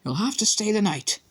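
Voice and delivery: high brisk nurse; firm school nurse; stern matron. A narrator's reading. Pomfrey voice.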